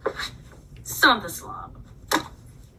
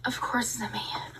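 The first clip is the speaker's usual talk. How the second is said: whispered aside; whispered repeat of a bitter line; 6 dB quieter than usual. Shown as a demonstration. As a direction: breathe it out like a secret.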